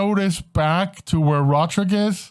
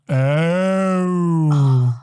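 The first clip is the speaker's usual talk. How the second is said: dawning realization. Acted. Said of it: "and you finally go".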